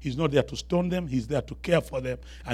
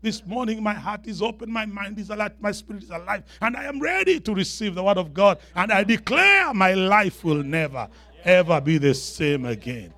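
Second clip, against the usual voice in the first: higher-pitched preacher's creed, building louder toward the end; congregational declaration; 6 semitones higher, 4 dB louder than usual. Shown as a demonstration. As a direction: lead the crowd in a rising Bible pledge. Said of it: "you can hear four thousand people shouting".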